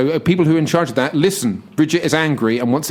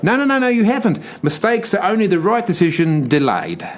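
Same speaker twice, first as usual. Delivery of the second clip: put-on Aussie accent; 4 semitones higher than usual. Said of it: "I'm an Aussie".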